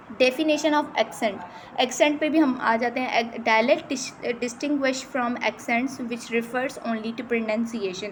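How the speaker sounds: slow, careful reading of English definitions; reading from slide. Shown as a demonstration. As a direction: read each word out slowly, like dictation. Reads slide text aloud. (धीरे-धीरे slide से पढ़ना)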